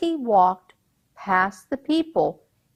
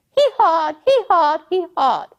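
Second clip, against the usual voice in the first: climbing higher hee-hawed imitating the donkey; donkey braying; 9 semitones higher, 5 dB louder than usual. Narrator imitating the braying donkey on the old man's back. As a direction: mimic the bray on hee-hawed.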